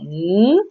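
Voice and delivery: n as a long held "nnn"; isolated letter sound. Shown as a demonstration. Teacher showing pupils the sound in nez, sustained n. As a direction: hum the sound n alone, drawn out. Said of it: "on entend le son n".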